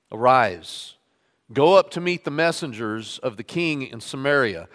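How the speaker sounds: measured public Bible reading; scripture reading. Acted. Pastor reading Kings to his standing congregation, measured reading voice. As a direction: read the passage aloud to the congregation.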